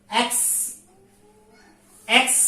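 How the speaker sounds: এক্স said alone, with a pause after each; sounding out এক্স. Shown as a demonstration. Teacher asks which article precedes X-ray, sounding out এক্স. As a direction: isolate এক্স so the opening vowel is clear. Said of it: "উচ্চারণ করি".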